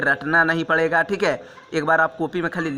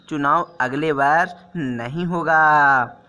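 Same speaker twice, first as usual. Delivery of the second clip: slow corrected version; slower than usual. Shown as a demonstration. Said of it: "बोलने का देखिए तरीका".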